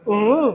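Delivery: short mock "uh-hum", stuck for an answer; imitated stumped grunt. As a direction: mimic a big brother caught without a reply. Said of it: "भैया क्या करेगा". (जवाब न सूझने की नकली "उहुं")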